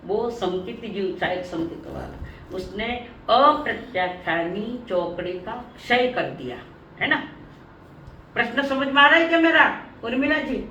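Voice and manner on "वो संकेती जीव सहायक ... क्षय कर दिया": lower, measured explaining; careful teacher's pacing, dropping in pitch; slow and careful. Real, not acted. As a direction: take it phrase by phrase for the class. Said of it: "मैं धीरे धीरे बोल रही हूँ".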